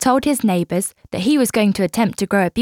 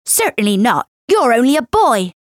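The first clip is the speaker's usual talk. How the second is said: put-on haughty girl captain.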